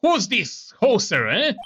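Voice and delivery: lightly Canadian judge voice; Canadian accent. Acted. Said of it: "He looks Canadian".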